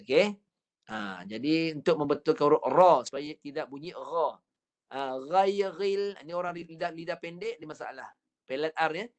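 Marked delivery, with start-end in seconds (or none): 5.2-6.2 "ghairil" with the r said as a throaty gh; R lisp. Shown as a demonstration. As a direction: say "ghairil" swapping the rolled r for a guttural gh. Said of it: "dia guna ghain".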